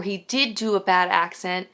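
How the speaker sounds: "did" punched against the previous clause; stress on DID. Real, not acted. Reviewer weighing whether the accent was bad, stress on "did". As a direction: lean firmly on "did". Contrasting two possibilities about the accent.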